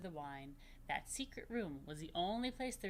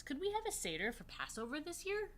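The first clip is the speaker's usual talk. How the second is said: put-on hopeful girl; 9 semitones higher than usual. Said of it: "Raquel asked her parents".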